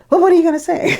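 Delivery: high, laughing mock director voice; mimicking the director. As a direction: play the gruff director with a laugh in it. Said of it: "he looks at me and he says".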